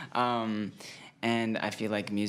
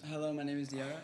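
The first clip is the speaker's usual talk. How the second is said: soft put-on British accent; 3 semitones higher, 7 dB quieter, much faster than usual. Shown as a demonstration. Feeding a bandmate a sentence to copy, soft British accent. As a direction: quietly model a British-accented introduction. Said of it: "a sentence in a British accent".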